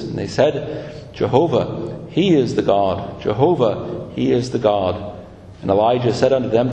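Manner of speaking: measured, solemn Bible reading; Scripture reading. Acted. Preacher reading Elijah's story to the congregation, solemn Scripture reading. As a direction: read the passage aloud formally. Reads the Scripture passage aloud.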